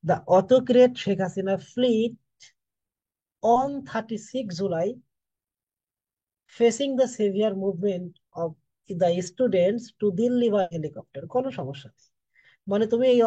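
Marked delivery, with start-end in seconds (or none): 0.0-11.2 very slow, each English word set apart; slow dictation. Shown as a demonstration. Teacher showing students another word order, very slow dictation. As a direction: spell out the sentence for the class at a crawl. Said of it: "যেমন আমি এটা এভাবে বলতে পারি".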